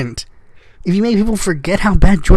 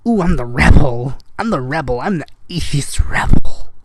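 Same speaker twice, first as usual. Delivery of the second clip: lower-pitched mock rebel voice; mocking impersonation; 5 semitones lower than usual. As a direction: lightly put on a mock-edgy "rebel" act. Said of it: "late night talk show host that's like".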